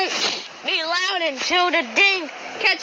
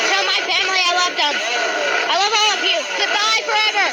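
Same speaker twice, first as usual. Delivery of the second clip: wounded soldier gasping. Acted. Monster right behind him.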